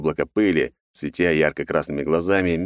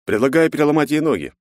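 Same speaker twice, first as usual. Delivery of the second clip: high, loud cold proposal; a soldier clone calmly suggesting cruelty; 10 semitones higher, 4 dB louder than usual. Acted. Clone to comrades about the girl, coldly.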